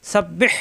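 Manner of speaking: সাব্বিহ with doubled B and a pressed, breathed H; throat-pressed H. Shown as a demonstration. Teacher drilling সাব্বিহ for learners, throat-pressed ending. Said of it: "এখানে কণ্ঠনালীতে চাপ হবে".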